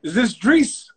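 a pushy exec checking who picked up; eager caller. Retold or imitated. Leo calling on phone.

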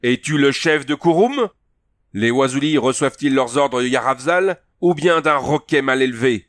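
the chief roaring at a rebellious warrior; enraged. A narrator's reading. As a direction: spit each word in outraged contempt. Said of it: "son ventre se gonfla de rage".

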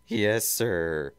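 mildly whiny underling; a touch of a whine; whining. Acted. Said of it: "Snively's voice whined from".

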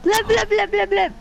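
gurgling fish man croak. Retold or imitated. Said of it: "my mum's doing it as well".

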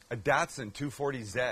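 Z said as "zed"; flat A in Datsun, Z as "zed"; Canadian pronunciation. Acted. Cook topping the Canadian car joke, Canadian pronunciation of Z. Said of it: "as the Canadians would say".

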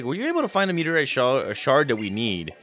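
lightly voiced urgent Steven, no accent; voicing Steven. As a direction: rush the request. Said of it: "And he's like".

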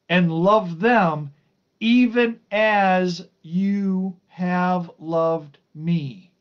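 emphatic, measured Bible reading; scripture reading. Acted. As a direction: read the verse out with weight, stretching key words. Reads scripture aloud to listeners.

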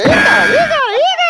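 high loud startled eita; excited yell. Real, not acted. Fight breaks out, yelled.

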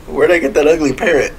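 said through a laugh. Real, not acted. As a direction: talk while laughing. Laughing while joking.

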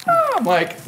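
squeaky falsetto imitation of a friend; mocking high voice. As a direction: shoot way up high to mock him. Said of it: "Don't go".

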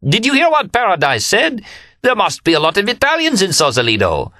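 very high, exuberant cry of disbelief; uproarious crowing. A narrator's reading. Remy repeats the joke to Leanne, high uproarious crowing. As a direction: crow it out high, relishing the joke.

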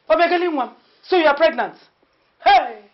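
loud and high, delighted; overjoyed cry. Acted. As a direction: burst with joy at the news. Mother suddenly overjoyed.

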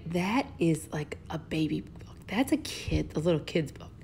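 whispered imitation of doubtful kids; mock whisper. Teacher imitating students scoffing at the book, whispered. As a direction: hush it like a skeptical aside. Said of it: "I can hear you say".

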